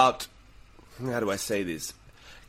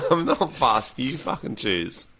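mock exasperated; slower than usual. Couple argument escalates.

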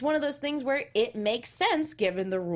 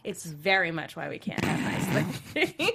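whispered aside; 5 semitones lower than usual. Shown as a demonstration. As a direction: whisper it like a secret. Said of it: "repeats the phrase as an aside".

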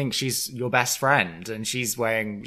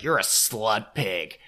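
mock Kim insult; much slower than usual.

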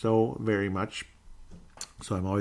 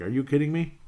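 mock shock; 5 semitones higher than usual. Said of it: "like, shocked".

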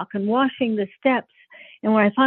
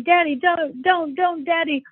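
retold screaming plea; 9 semitones higher, slower than usual. Daughter on the bed begging her father, mock screaming. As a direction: re-enact a panicked child begging, pitched way up. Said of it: "standing on the bed screaming".

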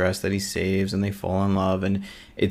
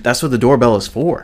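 a bit higher and louder, laughing through the words; 4 semitones higher, 6 dB louder than usual. Real, not acted. Amused by her own story about dad, laughing. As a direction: laugh it out as you finish the story.

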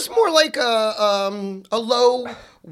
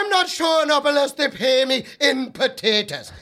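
fake Irish accent; 2 semitones higher than usual. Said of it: "That's my pathetic fake Irish accent".

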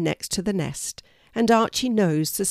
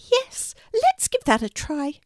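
very high, squeaky mouse voice; tiny mouse; 10 semitones higher than usual. A narrator's reading. Mouse asking Archie for help, high and squeaky.

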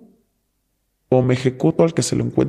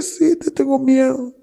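frightened friend; 11 semitones higher, slower than usual. Retold or imitated. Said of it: "Y así".

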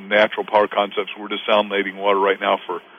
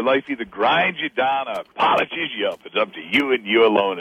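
put-on light, slowed Southern accent on the quote. Quoting a friend's great line, lightly Southern-accented. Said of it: "in his great Southern accent".

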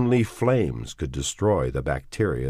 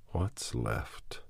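quiet despair; 3 semitones lower, 9 dB quieter than usual. Acted. Lonely question at night.

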